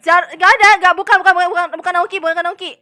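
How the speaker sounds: loud, insistent denial. Real, not acted. Player insisting to others it's not Naoki, loud. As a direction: cut them off, no, not Naoki. Denying loudly in meeting.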